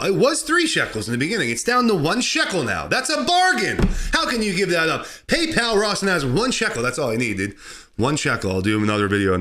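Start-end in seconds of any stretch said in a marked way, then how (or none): 0.0-6.8 mock bargain plea. Hammed-up bargain plea for shekels.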